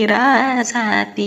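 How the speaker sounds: very slow, stretched ராசாத்தி; drawn-out call. Acted. Comic servant drawls the name very slowly. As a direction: drag ராசாத்தி out long and lazy.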